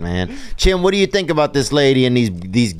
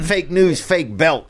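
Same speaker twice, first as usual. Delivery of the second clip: lightly mimicked catchphrase, pitched up; raised voice tossing out a borrowed catchphrase; Michael Rapaport; 4 semitones higher, slower than usual. Host mimics a celebrity's catchphrase to rib his co-host, lightly put-on voice. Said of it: "That's that Michael Rappaport, huh".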